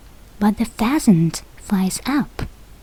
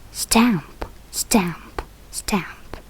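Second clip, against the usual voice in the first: fading footsteps; 4 dB quieter, much slower than usual. Acted. Ogres stamping off to sea.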